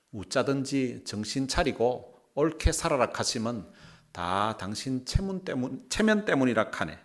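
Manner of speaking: Gyeongsang dialect scripture reading. Shown as a demonstration. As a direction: read the verse in Gyeongsang dialect. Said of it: "경상도 버전을 한번 읽어드리겠습니다". (경상도 사투리로 성경 읽기)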